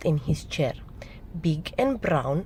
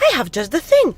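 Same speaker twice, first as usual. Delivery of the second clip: high, louder mouse voice; eager mouse; 10 semitones higher, 7 dB louder, much faster than usual. A narrator's reading. Mouse offers another remedy.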